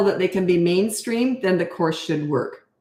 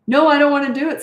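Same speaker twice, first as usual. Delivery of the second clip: higher, louder mock preschooler whine; mock whiny child; 8 semitones higher, 5 dB louder, faster than usual. Coach mimics a back-talking four-year-old, mock whiny.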